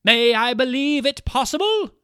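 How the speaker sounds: loud, high, breathless pleading; pleading cry. Acted. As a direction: press her friend for the truth. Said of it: "cried the weeping Bertalda".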